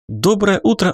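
Доброе утро sung out high and bright, like a morning TV host; upbeat, high greeting of a TV presenter; cheerful news anchor. Acted. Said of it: "бодрым голосом сделали объявление".

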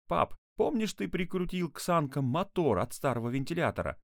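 put-on high, excited child's voice; eager boy. A narrator's reading. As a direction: pitch the idea eagerly to dad. Excited boy pitches his plan.

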